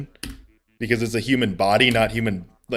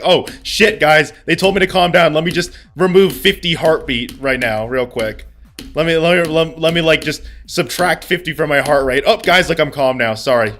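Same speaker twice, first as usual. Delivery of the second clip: sarcastic mock compliance; 4 semitones higher than usual. Sarcastic reenactment of calming.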